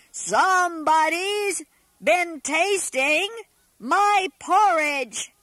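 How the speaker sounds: a hint of a big, booming father bear; big enormous voice. Father Bear finding his porridge touched, lightly booming. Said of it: "said Father Bear in his great, big, enormous voice".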